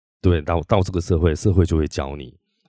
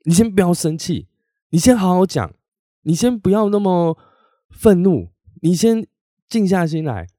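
patronizing calm-down; 10 semitones higher, 4 dB louder than usual. Retold or imitated. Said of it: "他却先跟你讲".

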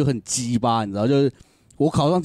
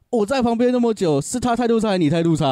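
higher, sharp rebuke of the rookie; scolding the rookie; 10 semitones higher than usual. Retold or imitated. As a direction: veteran cop dressing down his junior. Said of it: "他直接电他". (老警察训斥菜鸟，声音拔高)

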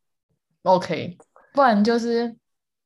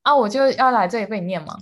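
mimicking annoyed partner; 2 semitones higher than usual. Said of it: "他是说".

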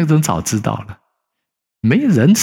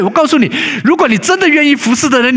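pitched up and louder, stress on 如果; fervent preaching; 4 dB louder than usual. Acted. Pastor challenges willing servants, in a raised, louder preaching voice. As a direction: preach it hard, the first time round. Preaching peak, repeated later plainly.

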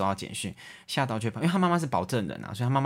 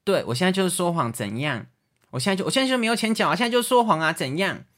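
higher and louder, a cornered debtor lashing out; angry defiant shout; 8 semitones higher, 5 dB louder than usual. Retold or imitated. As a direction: fling it back, fast and furious. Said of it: "他就更小灯生气". (被拆穿后恼羞成怒地大吼)

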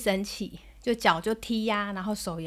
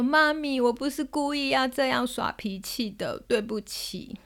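imitated tearful pout; 3 semitones higher, slower than usual. Daughter saying sorry to mum, imitated tearful pouting. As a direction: mimic a crying child, slowing at the end. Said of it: "一边哭，然后一边憋着嘴巴讲".

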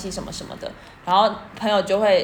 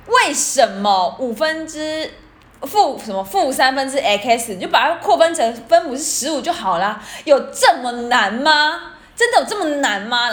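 higher, louder, slowed exasperated scolding over a maths problem; retold scolding; 4 semitones higher, 4 dB louder than usual. Big sister scolding a pupil over fractions, exasperated. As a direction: hammer the kid with disbelief, as if it were obvious. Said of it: "她就开始听到她骂说什么".

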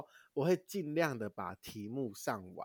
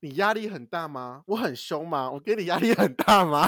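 一句比一句逼得更紧; 步步紧逼地质问; mock pressing questions; 4 semitones higher, 9 dB louder than usual. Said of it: "我就跟他说". (咄咄逼人地追问)

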